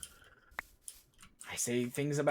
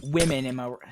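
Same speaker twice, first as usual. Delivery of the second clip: put-on louder retry at a British accent; failed British accent; 6 dB louder than usual. Streamer retrying the Tommy line, badly attempted British accent. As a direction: push harder at a British accent that fails. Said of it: "I can't do a British accent".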